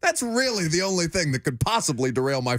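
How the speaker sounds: high, breezy, unbothered fan voice; mock carefree Georgia fan. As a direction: play the smug fan who fears nothing.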